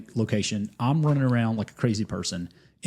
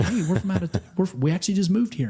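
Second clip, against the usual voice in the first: laughing quote; 8 semitones higher than usual. Retold or imitated. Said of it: "they're like".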